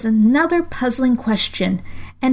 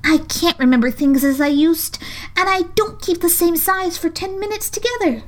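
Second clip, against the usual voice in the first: melancholy; 8 semitones higher than usual. A narrator's reading. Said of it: "in a very melancholy voice".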